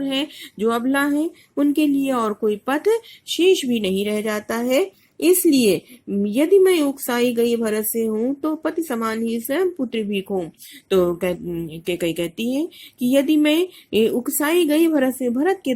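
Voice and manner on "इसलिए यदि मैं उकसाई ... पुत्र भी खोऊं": measured verse, rising and falling; a teacher's lilting verse reading; poem recitation. Acted. Recites next verse couplet.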